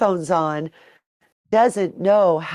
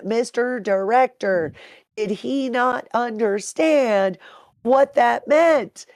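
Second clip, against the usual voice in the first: incredulous questioning; 6 semitones higher, slower than usual. Retold or imitated. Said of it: "I started questioning Micah".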